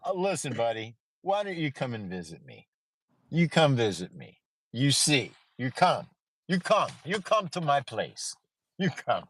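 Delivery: put-on Indian accent. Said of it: "do an Indian accent 'cause that's my favorite".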